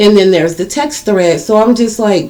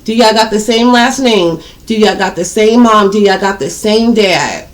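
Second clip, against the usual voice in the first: demanding. Retold or imitated. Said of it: "tell his ass".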